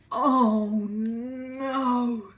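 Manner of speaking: high, loud groaning dismay; fed-up Mister Bear. A narrator's reading. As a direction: wail it like a tired bear. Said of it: "said Mister Bear".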